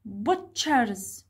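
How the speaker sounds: "Butchers" with stress on BUT; stressed first syllable. Shown as a demonstration. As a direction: press on the BUT of "Butchers", falling away. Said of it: "Where is the stress syllable?".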